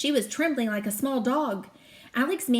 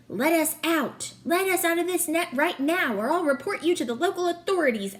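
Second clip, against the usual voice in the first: angry demand; 6 semitones higher than usual. Acted. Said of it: "Alex said".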